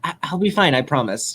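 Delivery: mildly embarrassed, dropping at the end; sheepish. Acted. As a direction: stumble into a sheepish promise. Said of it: "running her hand through her hair sheepishly".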